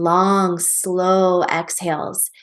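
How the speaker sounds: long, slow, stretched words; drawn-out breath cue. Shown as a demonstration. Teacher describing calming exhales, slow and drawn out. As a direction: stretch each word like an exhale.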